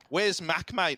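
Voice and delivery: jokey Aussie "mate" at every turn; light mock Australian; Australian accent. Laughing through Aussie banter about the server. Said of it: "grasp of the Australian accent".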